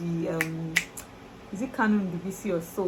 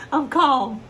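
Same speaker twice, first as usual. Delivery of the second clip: mock calm; 6 semitones higher, 8 dB louder than usual. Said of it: "let me calm down".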